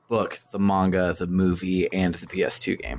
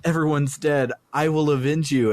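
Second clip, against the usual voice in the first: higher-pitched mock lament; mock-dramatic vow; 5 semitones higher than usual. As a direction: act out an over-dramatic game heroine, lightly hammed up. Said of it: "She's like".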